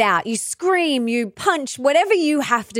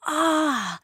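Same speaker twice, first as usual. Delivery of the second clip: mock realization; 4 semitones higher, much slower than usual. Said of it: "you look back and you go".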